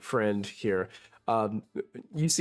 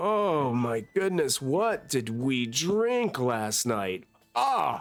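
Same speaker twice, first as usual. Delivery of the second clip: pained moan, very slow and drawn out; 4 semitones higher than usual. Voicing a hungover character who stumbles to the table: hungover character groaning. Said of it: "he's like".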